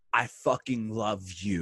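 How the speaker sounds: slow, earnest declaration; retold heartfelt affection. Wrestler retelling putting an arm round his defensive friend, heartfelt and slow. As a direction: let each word land slowly and sincerely. Moved friend after calming him down.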